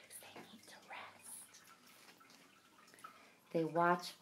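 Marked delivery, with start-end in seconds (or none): 0.1-1.6 whisper. Real, not acted. Telling children to keep quiet, whispering. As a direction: hush them gently. Hush for sick person.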